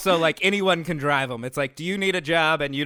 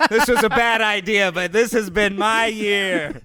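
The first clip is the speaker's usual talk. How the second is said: a hammed-up sales boast; mock sales pitch; 6 semitones higher, 5 dB louder than usual. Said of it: "everyone said".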